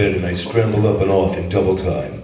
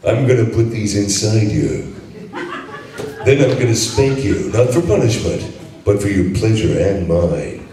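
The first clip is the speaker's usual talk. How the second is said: Duke Nukem voice. Acted. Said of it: "read that as the Duke for us".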